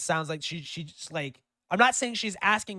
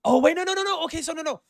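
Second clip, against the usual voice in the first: shocked realization; 13 semitones higher, 6 dB louder, faster than usual. Real, not acted. Sudden realization.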